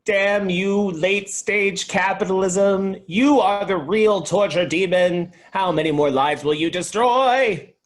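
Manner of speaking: loud, slow, ranting fist-shaken curse; angry shout. Acted. Alaric curses late-stage capitalism in a loud, angry rant. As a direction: rage at the sky. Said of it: "shakes his fist at the sky in anger".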